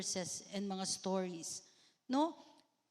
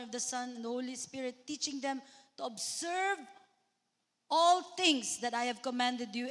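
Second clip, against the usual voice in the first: scripture proclamation. Acted. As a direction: declare the verse with conviction. Quoting the Great Commission. (kusog nga pagproklamar sa bersikulo)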